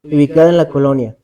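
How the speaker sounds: measured read-aloud storytelling with pauses between phrases; horror story narration. A narrator's reading. Podcaster telling a friend's ghostly canal encounter, scary-story narration. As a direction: narrate an eerie true account, phrase by phrase.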